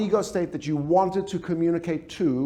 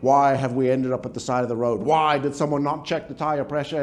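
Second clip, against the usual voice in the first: critical parent; 5 semitones lower than usual. Acted. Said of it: "the famous question that the critical parent wants to ask".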